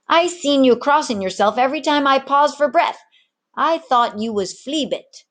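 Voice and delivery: a one-armed rogue selling gold to sailors; swaggering pirate mate. Acted. Pirate mate lures the tavern crew, loud and swaggering. Ginger mocks Samuel.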